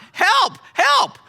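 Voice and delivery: picture the yell without letting it out; a slowed "Help, help" still under control; imagined yell. Retold or imitated. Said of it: "If I yell out".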